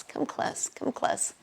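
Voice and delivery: soft unvoiced whisper, drawing them in. Teacher luring the workshop closer, in a whisper. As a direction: breathe it like a secret.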